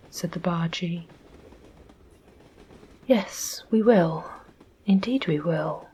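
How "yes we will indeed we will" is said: earnest. Acted. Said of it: "said Bobby earnestly".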